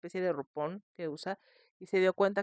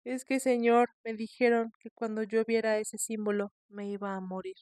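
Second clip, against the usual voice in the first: crying; 3 semitones higher than usual. Retold or imitated. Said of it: "Y se pone a llorar".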